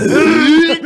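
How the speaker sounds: a loud, high, strained grunt through laughter; hammed-up fat guy's groan while laughing. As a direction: heave it out like getting up hurts. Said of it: "ele fala".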